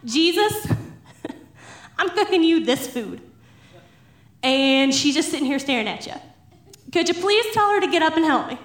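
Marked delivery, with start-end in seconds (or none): 0.0-3.2 mild mock exasperation; fed up. Martha in from the kitchen complaining to Jesus, fed up. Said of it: "she just can't take it anymore". 6.9-8.6 quick, mildly exasperated plea; mock complaint with a laugh in it; fed up. Martha asking Jesus to make her sister help, fed up. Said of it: "she just can't take it anymore".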